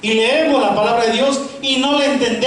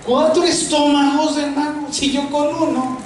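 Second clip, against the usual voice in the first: amused disbelief; 5 semitones higher than usual. Real, not acted. Joking about four stomachs.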